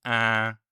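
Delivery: En with lips slightly stretched, through the nose; a spread-lip nasal En. Shown as a demonstration. Teacher modelling the stretched-lip nasal sound. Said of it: "stretch your lips slightly".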